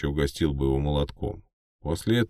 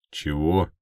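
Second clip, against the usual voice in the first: stunned. Acted. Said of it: "ошарашенно спросил парень".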